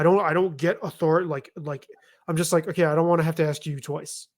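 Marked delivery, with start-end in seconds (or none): 2.7-4.3 matter-of-fact, without raising the voice; not raising voice. Retold or imitated. Parent telling daughter once, calm and unforced. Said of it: "I'm not even firm. I don't even raise my voice".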